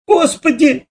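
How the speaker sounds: high gasped «Господи»; shocked mother's gasp. A narrator's reading. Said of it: "ахнула мама". (ахнула в ужасе)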